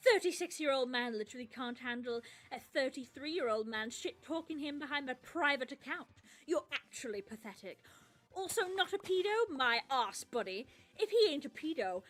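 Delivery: odd reading voice. Acted. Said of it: "Why are they talking like this?".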